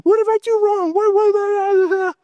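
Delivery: high-pitched tearless wail, frantic mock pleading; mock weeping. Preacher re-enacting his cries to God in pity, mock weeping. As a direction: act out a frantic, whiny plea, climbing very high. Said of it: "weeping and crying and like".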